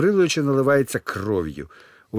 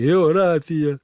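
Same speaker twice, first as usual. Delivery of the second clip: crying; 6 semitones higher, 4 dB louder, much slower than usual. Acted. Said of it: "Назар плаче".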